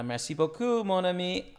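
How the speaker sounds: French with a strong English accent. Shown as a demonstration. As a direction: say it like a beginner in French. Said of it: "I know how to say a few things".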